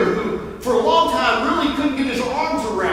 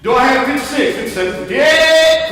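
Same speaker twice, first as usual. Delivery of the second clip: rising, louder bidding calls; auctioneer; 2 semitones higher, 6 dB louder than usual. Pretend. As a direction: call the numbers like an auction. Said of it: "Feel like an auctioneer".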